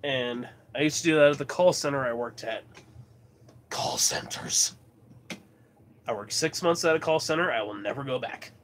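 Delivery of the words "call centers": slow, voiceless whisper; whispered aside. Real, not acted. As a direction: whisper it slowly, like a dreaded memory. Grim aside about a former job.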